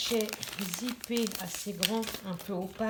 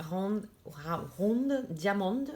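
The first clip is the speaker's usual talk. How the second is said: clumsy French-accented English, drawn out; bad English accent; much slower than usual. Real, not acted. Vlogger reading English off the box, bad English accent. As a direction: stumble through English words with a French accent. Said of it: "Excusez-moi pour l'accent anglais".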